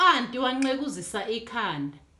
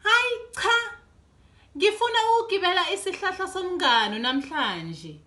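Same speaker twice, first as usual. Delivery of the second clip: put-on higher childish whine; whining child; 5 semitones higher than usual. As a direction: whine like a stubborn little girl. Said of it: "kunyipha uDudu".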